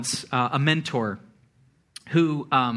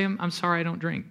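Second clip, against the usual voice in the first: understated apology, tailing off softer; simple, soft refusal; 6 dB quieter, faster than usual. Retold or imitated. Mentor to drinking colleagues, simple quiet refusal. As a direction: decline simply, without any judgment. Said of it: "he would just simply say".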